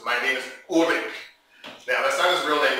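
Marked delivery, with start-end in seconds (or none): 0.0-1.1 imitated German accent. German man gives his name to a stranger, German accent. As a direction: introduce yourself as a German man. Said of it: "He was German".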